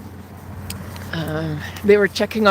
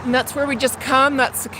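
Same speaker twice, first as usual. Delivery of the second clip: out of breath; 3 dB quieter than usual. Real, not acted. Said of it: "if I'm huffing and puffing".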